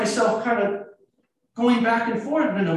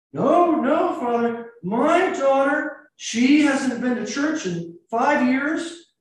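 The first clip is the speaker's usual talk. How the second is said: imitated parent, higher and drawn out; protesting parent; 4 semitones higher, slower than usual. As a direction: act out an insistent objection to the priest. Voices parent protesting to priest.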